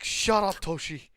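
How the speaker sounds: loud, high outburst at a teasing friend; embarrassed retort. Acted. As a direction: shout down the teasing. Teased friend snaps back.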